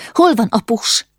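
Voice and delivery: tense, high, half-whispered question; frightened whisper. A narrator's reading. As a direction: ask it in hushed alarm.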